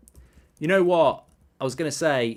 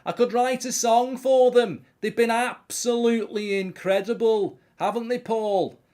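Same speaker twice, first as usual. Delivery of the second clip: much higher put-on voice, gushing praise; gushing singer voice; 8 semitones higher, 5 dB louder than usual. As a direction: lay on the gushing like a pop star. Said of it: "another impression for you".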